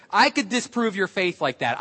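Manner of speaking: firm comeback at full speaking level; retold retort, plainly voiced and assured. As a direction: hand the challenge back to a friend. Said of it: "I said".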